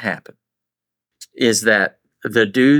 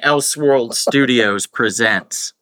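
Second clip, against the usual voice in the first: slow mock trailer voice; movie trailer announcer; slower than usual. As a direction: announce it like a film intro. Mock movie studio intro.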